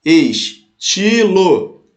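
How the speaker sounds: "Estilo" broken into slow, separate syllables. Shown as a demonstration. Teacher separating poetic syllables for students, "Estilo" syllable by syllable. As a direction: split "Estilo" into drawn-out syllables with pauses. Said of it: "Separa ali".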